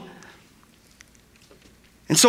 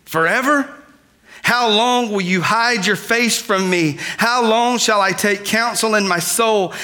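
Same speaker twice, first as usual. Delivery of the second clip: impassioned, higher-pitched plea to God; raised preacher's voice, pleading with God; loud crying out; 3 semitones higher than usual. Acted. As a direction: cry out the psalm in mounting frustration. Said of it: "I just read it in a very loud voice".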